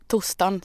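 "torsdagen" clipped to "tustan"; Småland pronunciation. Retold or imitated. Host imitates how Småland people say the day. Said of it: "säger de".

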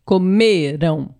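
slow COMERAM, ME stretched long; stress on ME. Shown as a demonstration. Co-teacher answering with the past form, drawn-out middle stress. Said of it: "A sílaba tônica está no me".

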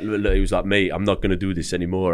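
lightly attempted French accent; a hint of a poor French accent; bad French accent. Imitating his French friend back from travelling, in a bad French accent. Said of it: "that was my French accent".

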